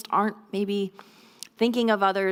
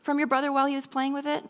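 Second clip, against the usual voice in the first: gentle parent question; 5 semitones higher than usual. Shown as a demonstration. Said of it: "So something like this".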